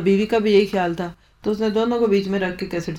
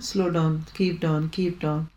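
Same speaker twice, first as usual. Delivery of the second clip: slow calming voice; 4 semitones lower, 5 dB quieter, much slower than usual. Shown as a demonstration. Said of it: "اس کو بجھانے کے لیے کچھ time لگے گا نا".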